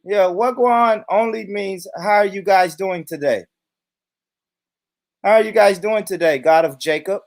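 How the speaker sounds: lightly put-on rich white man's voice; Todd. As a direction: translate slang as a mock-polite white guy. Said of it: "transform myself into a rich white man".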